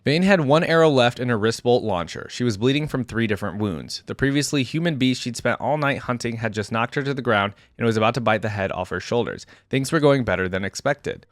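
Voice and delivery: measured story-reading voice; story narration. A narrator's reading. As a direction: read it like an audiobook action scene. Reads story aloud.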